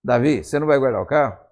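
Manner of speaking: mildly demanding question, imitating a nagging wife; mock nagging. Wife confronts David about the car, in a mildly nagging tone. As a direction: press him as a wife normally would. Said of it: "A entonação de voz já é diferente".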